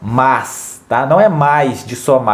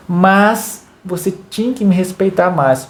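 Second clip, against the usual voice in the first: slow, higher "mas" leaned on; slow stressed demo; 4 semitones higher than usual. Shown as a demonstration. Parent correcting son, slow with mas stressed. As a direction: drag out the mas-clause. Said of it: "você vai falar assim pro teu filho".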